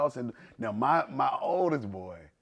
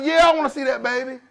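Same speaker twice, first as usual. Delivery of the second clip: high, loud and laughing; hammed-up laughing dad; laughing mock demand; 12 semitones higher, 9 dB louder than usual. Dad demanding to see baby.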